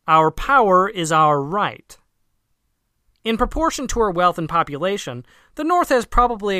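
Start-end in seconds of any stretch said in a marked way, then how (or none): 0.1-2.0 arrogant proclamation. Acted. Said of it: "simply to say".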